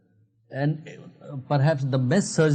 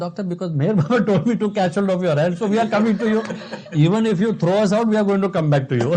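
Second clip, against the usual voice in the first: laughing plea; 5 semitones higher, 4 dB louder, much faster than usual. Retold or imitated. Retelling her plea, laughing.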